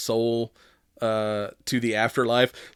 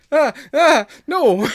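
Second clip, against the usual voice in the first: mock high voice; 8 dB louder, slower than usual. Mocking a character mid-sex.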